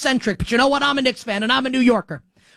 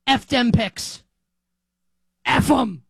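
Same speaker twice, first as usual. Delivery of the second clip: Les Snead impression; slower than usual. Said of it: "channel my inner Les Snead".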